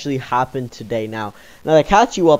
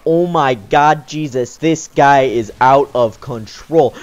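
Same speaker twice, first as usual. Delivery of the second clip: slow disbelief; 2 semitones lower, slower than usual. Retold or imitated. Stunned reaction.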